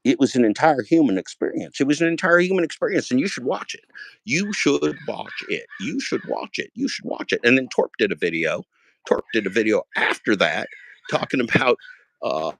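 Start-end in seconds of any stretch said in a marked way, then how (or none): 1.8-7.4 1 rising urging. Real, not acted. Urging viewers, going higher and softer.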